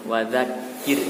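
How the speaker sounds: "wadzakir" with a light, thin R; thin final R. Shown as a demonstration. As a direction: end "wadzakir" on a thin R, lips spread. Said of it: "Dikatakan huruf ro tipis apabila".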